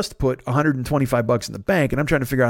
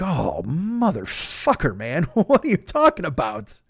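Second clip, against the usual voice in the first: retold dismay; 2 semitones higher, slower than usual. Bank call bad news, retold reaction.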